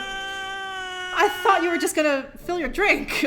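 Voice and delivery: half laughing, half whining in disbelief. Real, not acted. Streamer overwhelmed by viewer's gift, laugh-crying.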